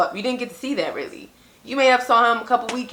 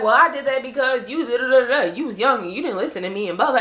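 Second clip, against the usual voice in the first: mimicking mom's excuse; 2 semitones higher, faster than usual. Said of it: "she used to just be like".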